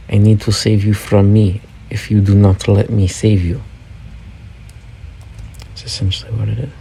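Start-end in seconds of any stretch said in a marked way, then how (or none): 0.1-3.6 lightly put-on insistent voice; mock Putin. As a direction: play a would-be rescuer making a threat. Joke voicing Putin's reply.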